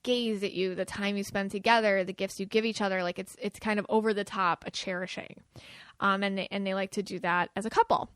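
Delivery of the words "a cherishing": whispered, dreamy aside; soft whispered cherishing. Shown as a demonstration. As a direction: let it fall to a breath.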